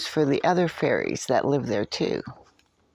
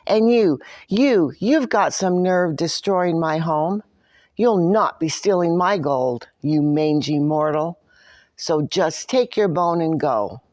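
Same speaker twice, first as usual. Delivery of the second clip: angry leprechaun; 2 semitones higher than usual. Acted. Leprechaun scolding dog.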